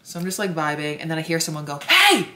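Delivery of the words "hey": high, loud yell for attention; imitated call-out. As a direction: call out sharply, pitch shooting up. Imitates someone calling out to her.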